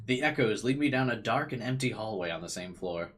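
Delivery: dramatic story narration; dramatic reading. A narrator's reading. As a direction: read it like a tense novel.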